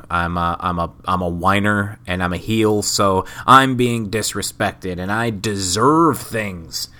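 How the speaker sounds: mock a heel whining that he deserves things; whiny heel promo. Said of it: "cutting the kind of cookie cutter promo".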